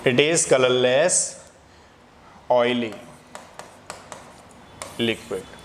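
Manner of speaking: very slow, a word at a time with pauses; slow dictation. Shown as a demonstration. Teacher dictating to students, very slow and spaced.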